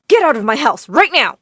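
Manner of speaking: loud yell; yelling mother. Acted. Mother yelling at Brittany to get out, loud. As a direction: yell it in her face. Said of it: "yelled in her face".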